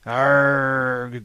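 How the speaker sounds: a mild growled arg; a hint of a frustrated growl. A narrator's reading. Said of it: "growled Harvey".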